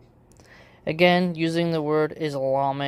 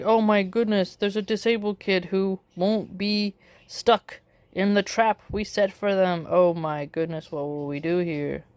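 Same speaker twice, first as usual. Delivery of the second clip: mock freaking out; 2 semitones higher than usual. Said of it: "She's freaking out".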